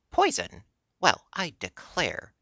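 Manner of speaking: the hen is deeply offended; indignant. Acted. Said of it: "said Billina indignantly".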